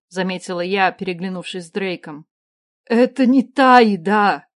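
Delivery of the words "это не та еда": slow, loud tearful cry; sobbing out. A narrator's reading. Starving woman protests to the queen, sobbing loudly. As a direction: cry the words out through sobs. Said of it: "всхлипнула женщина".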